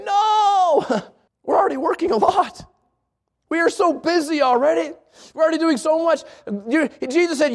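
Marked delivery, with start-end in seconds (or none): 0.0-6.2 hammed-up protesting disciple; whiny protest. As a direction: play the overworked disciples whining. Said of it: "they hear that and they say".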